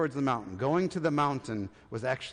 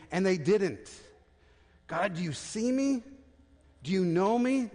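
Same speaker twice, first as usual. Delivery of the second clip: pleading Elijah; 6 semitones higher, 3 dB louder than usual. Acted. Pastor voicing Elijah's despairing plea.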